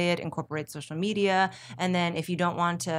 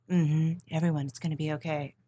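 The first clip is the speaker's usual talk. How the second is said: calm reassurance; 3 semitones lower than usual. Retold or imitated. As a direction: soothe viewers through a hurricane. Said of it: "on camera, you're just like".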